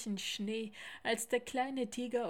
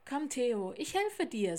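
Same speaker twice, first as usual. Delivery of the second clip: slightly raised, louder helping voice; encouraging call; 2 semitones higher, 6 dB louder than usual. Acted. Lars helping Theo over the stream, encouraging call. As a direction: coax a hesitant friend forward.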